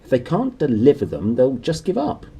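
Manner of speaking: lightly voiced uncle mumbling around nails; mouth full of nails. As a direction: talk past a mouthful of nails. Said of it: "through a mouthful of nails".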